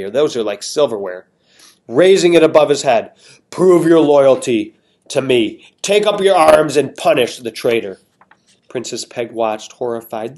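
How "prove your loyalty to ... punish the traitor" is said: a hint of a grand king, slow on apprehended; lightly voiced king. King Carnine addressing the crowd, lightly pompous. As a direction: address the court with mild pomp.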